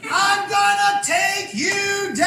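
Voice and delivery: high, slow, drawn-out battle cry; hammed-up charging yell; mock war scream. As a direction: howl it like charging into a tackle. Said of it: "screams at the top of his lungs".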